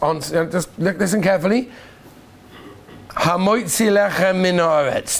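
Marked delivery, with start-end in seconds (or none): 3.1-5.2 Hamoitzi lechem min haaretz said slowly, lechem and min run together; test pronunciation. Shown as a demonstration. Rabbi testing students with a slow, slurred blessing. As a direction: let lechem min haaretz slur into one big word. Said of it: "Did I say it right or wrong?".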